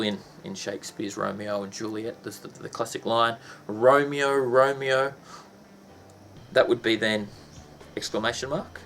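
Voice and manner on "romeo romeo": calling out. Shown as a demonstration. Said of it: "Romeo's being saluted".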